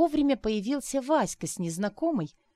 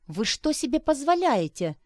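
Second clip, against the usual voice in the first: high, louder indignant challenge; outraged hostess snaps; heating anger; 7 semitones higher, 4 dB louder than usual. A narrator's reading. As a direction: rise in anger at him. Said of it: "стала накаляться хозяйка дома".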